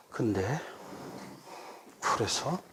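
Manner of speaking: low, soft, listless mock reply; acted indifferent father, barely engaging; unresponsive dad. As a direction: answer with almost no energy. Dad's listless reply to chatty daughter.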